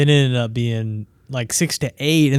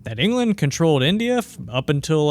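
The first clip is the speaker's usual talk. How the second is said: lecturing coach; 4 semitones higher than usual. Retold or imitated. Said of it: "coach lecturing about Gandhi".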